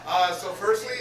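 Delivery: projecting teacher voice. Real, not acted. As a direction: project to the back row like a teacher. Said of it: "gotta use my teacher voice".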